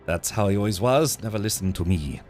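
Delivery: put-on half-convincing French accent for a resentful son; fake French accent. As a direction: play the bitter son with an attempted French accent. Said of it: "It's supposed to be French".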